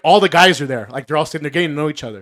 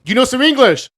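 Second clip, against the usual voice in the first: quoting the teacher; 9 semitones higher, 3 dB louder than usual. Retold or imitated. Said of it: "and he goes".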